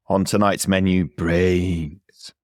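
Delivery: slow groaning zombie voice. Acted. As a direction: moan it like a zombie. Zombie host announcing the menu.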